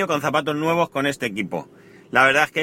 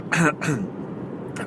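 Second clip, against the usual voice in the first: choked throat clearing; nearly choking; 3 semitones higher, 5 dB quieter than usual. Real, not acted. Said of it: "perdón, casi me ahogo". (tos ahogada, carraspeo)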